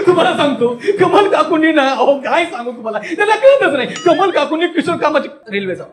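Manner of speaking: high-pitched put-on chatter; exasperated high-voiced storyteller; gossiping character voice. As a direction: gossip away in a high comic voice.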